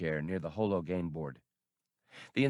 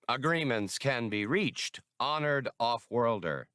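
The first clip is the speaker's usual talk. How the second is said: smooth alien negotiator; 3 semitones higher than usual. Acted. Brigian officer bargains with Han.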